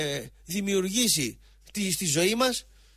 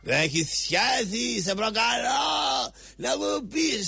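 slow, higher, shouted challenge; mock shouting; 5 semitones higher, much slower than usual. Host imitating rival yelling a dare, slow shout. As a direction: bellow the dare like a riled opponent. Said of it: "μη φωνάζεις".

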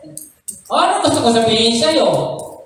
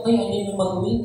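mocking gossip; 6 dB quieter, faster than usual. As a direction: jeer at a passerby under the breath. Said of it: "Naglalakad ka lang".

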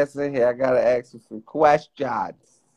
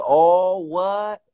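imitating catchphrase; 3 semitones higher than usual. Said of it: "Craig, bring your ass to the docket".

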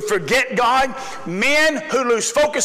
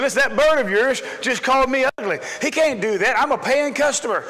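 mildly indignant customer complaint; a touch of affronted protest; offended; 3 semitones higher than usual. Acted. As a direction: lightly act out a complaining customer. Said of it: "the guy got offended".

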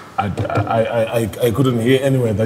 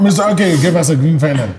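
laughing; 7 semitones higher, 5 dB louder, faster than usual. Real, not acted. Judge laughing.

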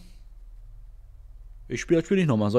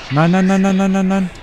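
frustrated; 9 semitones higher, 3 dB louder than usual. Real, not acted. Frustrated gamer repeating no.

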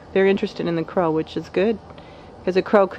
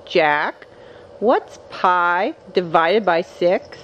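mock serious quiz; much slower than usual. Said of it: "I asked Jack an important math question".

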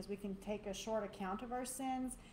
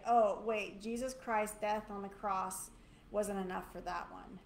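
mock second thoughts; 4 dB louder than usual. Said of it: "He's not gonna say".

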